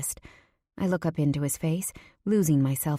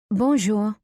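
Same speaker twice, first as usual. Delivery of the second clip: higher, louder French reply; returned greeting; 5 semitones higher, 5 dB louder than usual. A narrator's reading. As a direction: answer the waitress's greeting, pitched up. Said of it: "I reply".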